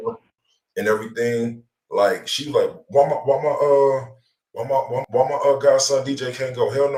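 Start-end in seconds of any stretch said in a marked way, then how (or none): none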